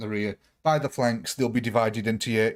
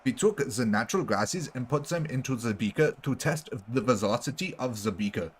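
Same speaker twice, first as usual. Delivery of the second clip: German scientist. Retold or imitated. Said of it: "it's more German scientist".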